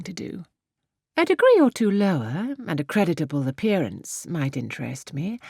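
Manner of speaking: lightly voiced haughty Emma. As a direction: look down on farmers with cool poise. Emma answers Harriet coolly.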